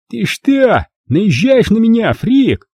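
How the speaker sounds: high, challenging threat; aggressive Rob. A narrator's reading. Rob challenging John, high and aggressive. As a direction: square up to him.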